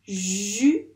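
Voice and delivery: "Jupe" as long rising ju, pause, pe; emphatic two-beat "Jupe"; syllable by syllable. Shown as a demonstration. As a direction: stretch the j, then split off pe in "Jupe". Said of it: "Dans quelle syllabe?".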